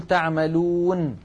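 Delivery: تعملون said with the final نون sounded and held at the stop; pausal form. Shown as a demonstration. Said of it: "بل نقول". (تعملون بنون ساكنة ظاهرة في الوقف)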